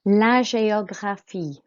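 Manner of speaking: GÉOGRAPHIE starting with "zh", é as "ay"; soft French G. Shown as a demonstration. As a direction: sound out GÉOGRAPHIE in French for learners. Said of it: "the G makes a Z sound".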